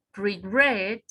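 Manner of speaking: regret with the weight on GRET; teacher's model regret, end syllable stressed; stress on second syllable. Shown as a demonstration. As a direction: say regret, leaning on the last syllable. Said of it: "Acá está en regret".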